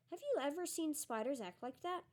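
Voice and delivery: a touch of puzzled wonder, rising at the end; curious, half to herself. A narrator's reading. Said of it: "said Hermione wonderingly".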